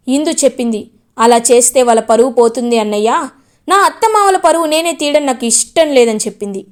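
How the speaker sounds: angry scolding. Acted. Gagan scolds in-laws.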